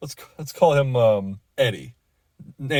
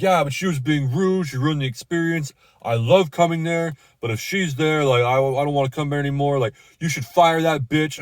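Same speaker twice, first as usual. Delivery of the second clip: higher, indignant whine building to a demand; mock outrage, higher and whiny; whiny indignant customer; 4 semitones higher than usual. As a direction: ham up the entitled regular. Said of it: "He's like".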